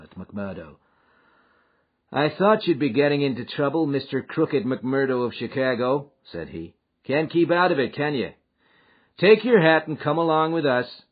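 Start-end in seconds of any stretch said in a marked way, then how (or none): 2.1-11.0 the police captain, higher and louder, wry; a mocking arrest; voiced Captain Marvin.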